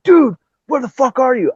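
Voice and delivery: high-pitched retold phone outburst; imitated friend calling, incredulous; exasperated demand. Jimmy demanding why he's absent.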